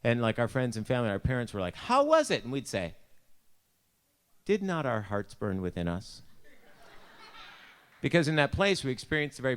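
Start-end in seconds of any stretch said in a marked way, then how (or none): 1.8-2.4 high, loud, drawn-up question; eager parents' question. Retold or imitated. Parents greeting campers eagerly. 4.4-6.2 solemn scripture quote. Retold or imitated. Mock solemn scripture answer.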